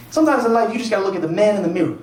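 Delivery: lightly voiced catchphrase advice; black guy's catchphrases. Friend counselling a man about dating, preachy catchphrase delivery. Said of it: "black guy ... with kind of catchphrases".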